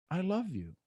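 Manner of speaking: soft, hushed "I love you"; said quietly. Shown as a demonstration. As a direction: say it gently under your breath. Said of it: "you can say it quietly".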